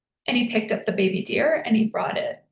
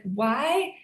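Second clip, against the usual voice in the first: higher, anguished plea to the universe; mild retold anguish, higher pitch; devastated lament; 3 semitones higher than usual. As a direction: cry out why, grieving. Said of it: "devastated I was".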